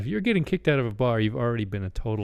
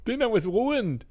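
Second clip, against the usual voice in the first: mock dramatic; 10 semitones higher than usual.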